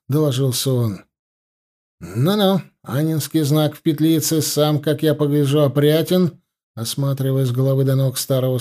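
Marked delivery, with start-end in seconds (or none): none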